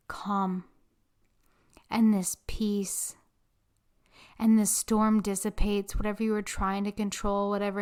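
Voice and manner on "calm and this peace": whispered calm. Acted. Host easing listeners into peace with a whisper. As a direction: breathe the words out gently.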